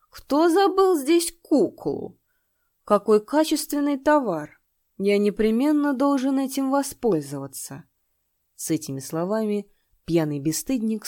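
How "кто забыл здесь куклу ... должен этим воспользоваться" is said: put-on high, loud, slow drunken leer; sniffling drunk gloating over a find; drunk lecher. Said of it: "Шмыгая носом, он произнёс".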